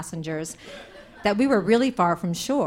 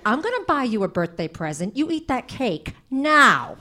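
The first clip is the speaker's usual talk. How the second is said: threat. Retold or imitated. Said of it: "say them like they were death threats".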